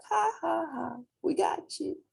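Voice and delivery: high taunting ha ha; mocking laugh. Pigs at the window taunting the wolf, high and mocking. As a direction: gloat at the fallen wolf. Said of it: "the pigs are in the window looking at him like".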